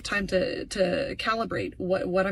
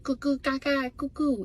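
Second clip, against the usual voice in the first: put-on lightly raised, cooing baby voice; baby babble; 4 semitones higher than usual. Imitating the baby on his voicemail, light coo. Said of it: "The baby's like".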